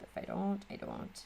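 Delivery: natural Midwest accent slipping out. Real, not acted. Crafter lets her own accent slip while talking, Midwest accent. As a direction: let the Midwest vowels slip through. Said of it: "the accent came out".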